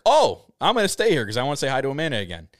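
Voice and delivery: retold burst of keen interest; eager. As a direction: perk right up at the news. Retelling eager reaction to Amanda.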